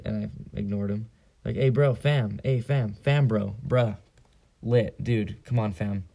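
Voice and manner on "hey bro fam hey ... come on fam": calling out. Retold or imitated. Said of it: "kept calling me".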